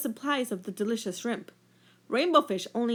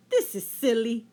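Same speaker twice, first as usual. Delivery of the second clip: declaring; 4 dB louder than usual. A narrator's reading. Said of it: "declared Rainbow Fish".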